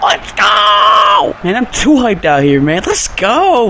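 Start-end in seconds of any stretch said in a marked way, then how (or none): 0.0-1.4 high loud laugh into a yell; real giddy celebration; delighted laugh. Real, not acted. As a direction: laugh out loud then shout for joy. Celebrating goal.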